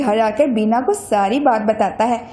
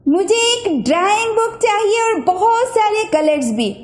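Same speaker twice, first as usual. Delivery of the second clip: put-on higher girl's eager wish; 7 semitones higher than usual. A narrator's reading. Bina wishes for a drawing book, eager girl voice. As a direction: ask sweetly for colours.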